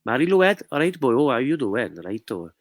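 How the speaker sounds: lilting put-on Welsh accent. Shown as a demonstration. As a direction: greet them in a singsong Welsh accent. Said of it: "I'm doing my Welsh accent".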